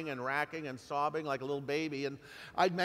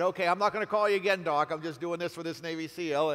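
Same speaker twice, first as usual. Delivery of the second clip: loud and fast; 5 dB louder than usual. Retold or imitated. Retold brush-off to the doctor.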